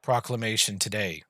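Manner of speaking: measured, lightly voiced decree; lord's cold proclamation. Lord announces the harsh decree to the crowd, calm and measured. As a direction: read the harsh edict as if it were kind.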